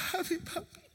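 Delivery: voz aguda de niño que llama suavecito; voz de niño pequeño. Retold or imitated. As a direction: imita a un niño de tres años, más agudo y más suave. Hijo pequeño llama a su papá. (voz aguda de niño pequeño)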